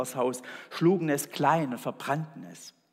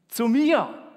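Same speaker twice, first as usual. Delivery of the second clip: higher, louder excited cry; shout; 9 semitones higher, 8 dB louder than usual. Acted. Man learns God will visit, shouting. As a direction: shout it out in disbelief. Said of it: "schrie er".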